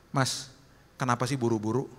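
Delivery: calm and unhurried, no blame; gentle tone. Retold or imitated. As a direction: ask gently, putting an arm round a stranger. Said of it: "dengan nada seperti ini".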